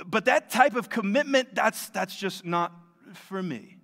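high, loud, breezy voice of a casual attendee; lampooning the half-hearted member; mock uncommitted churchgoer. Pastor mocking a casual churchgoer's excuse, loud and breezy. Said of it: "And you might be saying".

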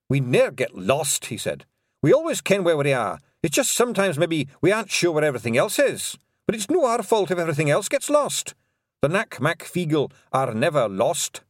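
high, indignant Scottish wee-man voice; touchy Scots Feegle; offended Scottish pixie. Acted. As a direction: bristle with hurt Scottish pride. Rob Anybody offended.

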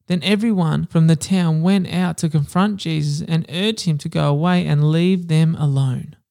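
steady, measured Bible reading voice; scripture reading. A narrator's reading. Podcast host reading Matthew to listeners, measured scripture reading. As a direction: read the gospel passage evenly to listeners. Reads scripture passage aloud.

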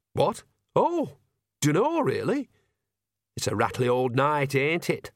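lightly voiced cheeky old woman; a hint of a sly old granny; old witch voice. Nanny character, high start.

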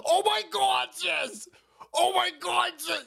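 high mock-girly voice; mocking the robber. Streamer mocking the robber in a high girly voice. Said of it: "she was robbing a truck".

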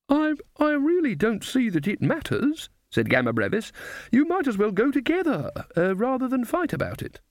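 put-on flustered high old lady; high old woman voice. A narrator's reading. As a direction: pitch it up and fluster. Gamma Brevis placates.

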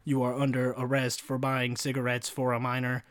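lightly voiced robot cop; evenly measured, mechanical delivery; a hint of robotic police officer. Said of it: "robot voice is like".

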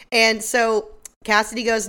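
normal talking voice

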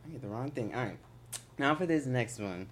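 echoing like a far-off hall; big hall echo. Real, not acted. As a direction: voice sounding distant with echo. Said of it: "Why do I sound like I'm echoing?".

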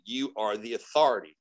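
low-key, even declaration; voice of authority. Retold or imitated. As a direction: state it plainly and with certainty. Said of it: "just like that".

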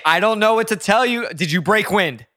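lightly played impatient son; exasperated son. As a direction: needle your mother, half-exasperated. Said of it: "I'm gonna be Nick".

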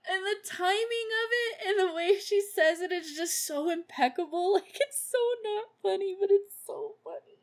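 giggling as she talks; laughing. Real, not acted. Giggling to the viewers about Mary's line. Laughing through her comment.

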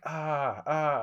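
half-hearted screaming in imitation; imitated scream. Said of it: "he just starts screaming".

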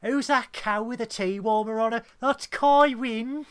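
hammed-up Birmingham dub of Kai Wynn; Birmingham accent. Mocking a Brummie dub, a high, loud Birmingham accent. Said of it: "dubbed with Birmingham accent".

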